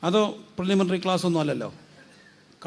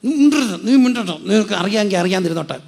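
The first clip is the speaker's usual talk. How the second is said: sharp hushing, opening high and loud; retold scolding; 3 semitones higher, 6 dB louder than usual. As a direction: mimic a friend shutting someone up. Retells a friend silencing them.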